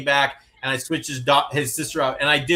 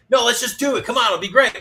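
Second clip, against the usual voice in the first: higher, upbeat urging; enthusiastic; 7 semitones higher, 3 dB louder than usual. Retold or imitated. Partner cheerfully urging the other to just do it, enthusiastic. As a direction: talk them into it eagerly. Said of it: "you want the other person to be enthusiastic".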